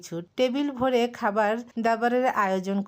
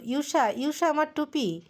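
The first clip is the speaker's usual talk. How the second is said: higher, hurried mock cry; flustered shout; 7 semitones higher than usual. A narrator's reading. Husband calling his wife to save his cap, flustered yell. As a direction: call out in a panicky rush. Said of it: "ও হড়বড় করে চেঁচালো".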